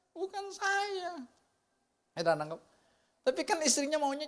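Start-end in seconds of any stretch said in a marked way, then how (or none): 0.1-1.2 drawn out. Acted. Stressing grace, not himself.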